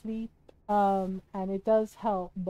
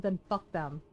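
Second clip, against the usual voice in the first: calm, lower-pitched delivery; very calm retelling; 4 semitones lower than usual. Retold or imitated. Partner calmly answering a worry about people who don't understand, very calm. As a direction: say it evenly and low. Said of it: "Ron very calmly said".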